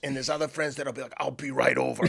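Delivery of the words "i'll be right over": the loyal friend yelling back on the spot; eager shout. Retold or imitated. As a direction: shout it out, no questions asked. Loyal friend answers the call.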